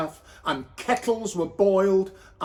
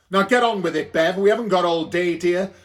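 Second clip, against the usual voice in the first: louder and faster, hurrying her; impatient landlady; 4 dB louder, faster than usual. Acted. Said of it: "said Mary Gold".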